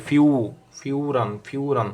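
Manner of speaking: "ফিউরান" with a drawn-out "উ" in the first part; demonstrated u sound. Shown as a demonstration. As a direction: show the long u glide in "ফিউ". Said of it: "উর মতো উচ্চারণ হয়". ("ফিউরান"-এ "উ" টেনে উচ্চারণ)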